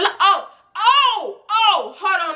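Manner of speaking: laughing it out, pitch jumping up; laughing as a forgotten detail comes back. Real, not acted. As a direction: break into giggles mid-sentence. Laughs remembering the story.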